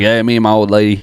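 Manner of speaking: put-on country-boy Southern accent; mock Southern twang; code-switched Southern. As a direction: talk like a good old Southern boy. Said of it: "I was really code talking it up".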